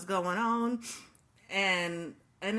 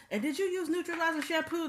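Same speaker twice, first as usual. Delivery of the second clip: high, fast, breaking into a laugh; laughing disbelief; 10 semitones higher, faster than usual. Retold or imitated. Instructor asks the stylist in amused disbelief, laughing. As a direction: ask it laughing at how absurd it is.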